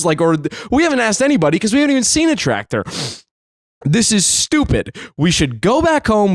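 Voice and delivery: retold exasperated rant, pressing each grievance; freaking out. Son berating dad over the missing tractor, freaking out. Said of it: "I'm freaking out".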